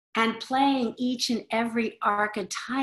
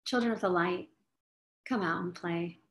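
softer, fading repeat of the call; gently fading chant; 3 semitones lower, 6 dB quieter, faster than usual. Shown as a demonstration. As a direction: let the call drift away softly. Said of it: "repeated, softer".

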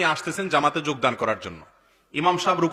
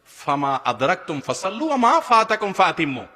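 Arabic recitation; slower than usual. Acted.

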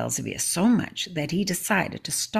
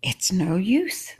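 slow, breathy, mild cry of giving up; a hint of despair, slowed down; cried; 3 semitones higher, 3 dB louder, slower than usual. Thirsty villagers giving up, mild slow cry. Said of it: "the people cried".

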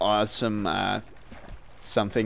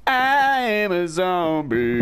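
slow, drawn-out mock zombie; 4 semitones higher, slower than usual. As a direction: moan it out like a pretend zombie. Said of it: "I just turned zombie".

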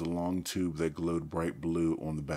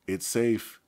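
raised, carrying call; higher, louder, reassuring announcement; loud, clear voice; 5 semitones higher, 6 dB louder than usual. A narrator's reading. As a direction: call out clearly to strangers in the ship. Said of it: "he said in a loud, clear voice".

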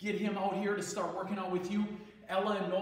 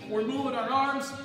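surfer cousin. Acted. Gym teacher as his surfer cousin leading kids, lightly laid-back surfer voice. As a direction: play the chill Hawaiian surfer cousin, upbeat. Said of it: "I have a cousin staying with me".

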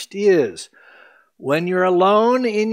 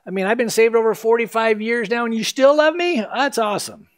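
lifts higher, grateful and amazed at being loved; heartfelt sample prayer; 4 semitones higher than usual. Pretend. Preacher voicing a believer's prayer to Jesus, grateful and higher. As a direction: pray it like a saved sinner still amazed. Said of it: "answer him and say".

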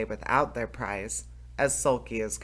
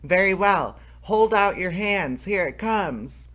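high, loud shout, slowing on the last words; loud call; 6 semitones higher, 5 dB louder than usual. A narrator's reading. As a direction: yell it out gleefully to be heard. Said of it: "called out as loud as he could".

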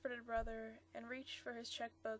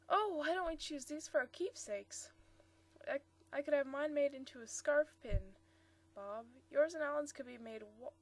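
eager, louder and higher; excited young woman; 3 semitones higher, 6 dB louder than usual. Acted. Marcia excitedly pitching her idea to Bob. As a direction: gush over your sudden idea.

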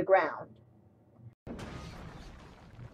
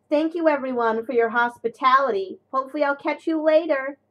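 cheery farewell; 6 semitones higher, 5 dB louder, faster than usual. A narrator's reading. James polite, cheery farewell.

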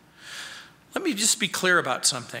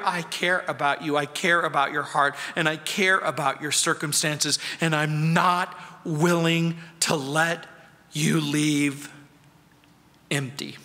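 gentle Jesus; 4 semitones lower than usual. Acted. Jesus whispering comfort.

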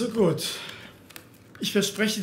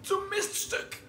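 hissed insult; 10 semitones higher, 5 dB quieter than usual. Acted. Insulting his captor.

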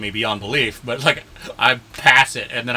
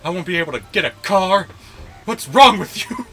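higher-pitched, exasperated pleading rant; mock indignant rant; 4 semitones higher, 3 dB louder than usual. Acted rant after "him like.

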